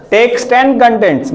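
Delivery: each word stretched very slowly; drawn out. Shown as a demonstration. Teacher slowly reading the option name to students, drawn out.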